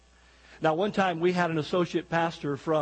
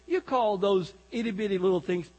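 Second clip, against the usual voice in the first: bragging Texan; 4 semitones higher than usual. Acted. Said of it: "The Texan said".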